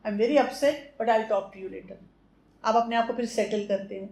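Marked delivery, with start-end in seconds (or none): 0.1-1.9 a calm but firm request, slowly; calm, gentle. Shown as a demonstration. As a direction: ask them to leave without raising your voice. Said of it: "نہیں، نہیں، آرام سے".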